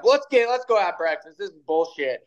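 high, fed-up mock grumble with a laugh; a hint of a disgusted friend calling it off; retold pissed off. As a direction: play the annoyed hunting buddy, half laughing. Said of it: "oh, he's pissed".

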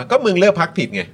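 mock sneer. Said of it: "อีลิทอะที่พูดแบบว่า".

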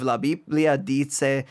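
non-native go at Spanish pronunciation; American speaker trying a Spanish accent; attempted Spanish accent. Real, not acted. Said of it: "Please excuse my terrible Spanish accent".

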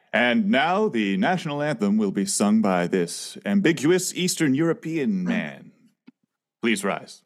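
lightly voiced stadium announcer; slow, measured anthem introduction; ballpark announcer. Introducing the national anthem to a ballpark crowd, announcer voice.

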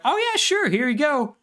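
put-on high, bright kid voice, way up; boy's voice. Boy hands fake Horace the diamond eyes, high kid voice. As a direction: play the eager boy handing it over.

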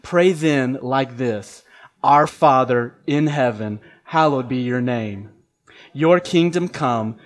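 slow, measured prayer recitation; congregational prayer recital. Real, not acted. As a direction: recite it slowly together. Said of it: "Would you join me with this".

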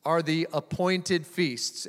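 appointed stressed, slow and falling; slow emphasis. Shown as a demonstration. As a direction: lean on appointed, slowly. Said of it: "Everybody say".

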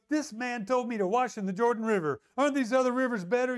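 mildly indignant retold complaint; acting out an affronted man; upset. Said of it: "You see how he's getting upset?".

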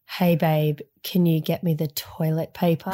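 retold come-on in a sultry tone; seductive. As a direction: purr it lightly, mock-seductive. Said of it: "in a really seductive tone".

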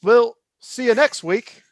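slow, high British accent. Shown as a demonstration. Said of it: "Say ... in a British accent".

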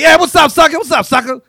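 sing-song the greeting; friends greeting. Retold or imitated.

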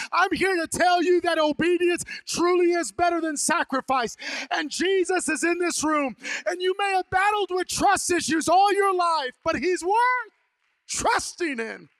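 fervent preaching. Real, not acted. Preacher to the congregation, shouting the appeal. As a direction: preach it to the rafters.

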